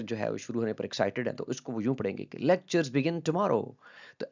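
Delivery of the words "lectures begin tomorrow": higher, slow and stretched, "Lectures" falling with excitement; an eager student who can't wait; excited. Shown as a demonstration. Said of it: "जो बहुत ही excited होते हैं". (जोश से भरा, ऊँचा और खिंचा हुआ)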